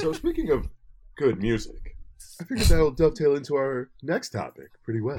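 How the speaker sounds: put-on radio host voice. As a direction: segue like a radio presenter. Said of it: "I hate this voice".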